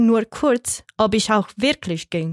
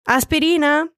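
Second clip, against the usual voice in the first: Aspirina called out high; 6 semitones higher than usual. A narrator's reading. Pedro calling Aspirina to the dancers. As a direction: call Aspirina across the dance floor. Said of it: "rief Pedro".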